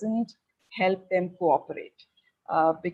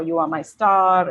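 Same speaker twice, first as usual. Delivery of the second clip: loving message; 7 dB louder than usual. Retold or imitated. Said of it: "just saying".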